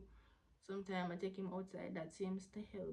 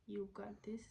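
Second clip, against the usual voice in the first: whispered encouragement; 4 dB quieter than usual. Real, not acted. Encouraging other moms tenderly.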